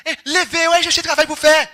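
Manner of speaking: high loud mock grandma yell; grandma hollering to get him up; imitating grandma. Grandma waking grandson in bed, high loud mock yell.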